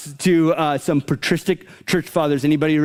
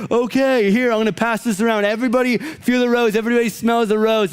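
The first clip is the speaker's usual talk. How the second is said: mocking youth speaker; 6 semitones higher than usual. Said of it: "And he's like".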